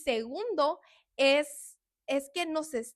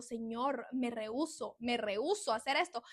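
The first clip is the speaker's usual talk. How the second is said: tearful refusal; 5 dB quieter than usual. Retold or imitated. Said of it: "yo lloraba y yo".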